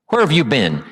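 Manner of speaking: a hint of sarcasm, only lightly marked; muted sarcastic jab; loaded. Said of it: "that's loaded with "you don't care".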